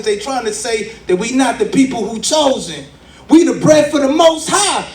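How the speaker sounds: rising rally preaching, loud peaks; fiery street-sermon cadence. Acted. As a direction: preach it to the crowd.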